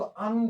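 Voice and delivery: अंग ending in a light g; nasal with light g. Shown as a demonstration. Teacher showing how it is read, अंग with light g. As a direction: say अंग with a faint closing g. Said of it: "इसमें हल्का ग का उच्चारण होता है".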